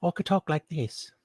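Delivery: a hint of an altered voice; different voice. Shown as a demonstration. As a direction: lightly pitch it up and soften it. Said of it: "have my voice a little bit different".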